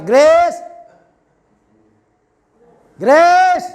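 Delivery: loud, high call across the house; mother calling. Retold or imitated. Mother calls her daughter to help, loud high call. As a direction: shout the name up high like a mum. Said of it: "Coba Mama yang panggil".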